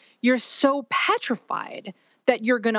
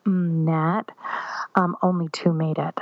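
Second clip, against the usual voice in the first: hushed bad news; 4 semitones lower than usual. Doctor whispering to the hopeful mother that only two made it. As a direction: breathe it out like a doctor softening a blow.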